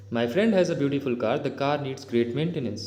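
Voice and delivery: slow, deliberate reading of an English example; slow dictation-style reading. Shown as a demonstration. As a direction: read each word out clearly for the class. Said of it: "teacher reads example sentences slowly".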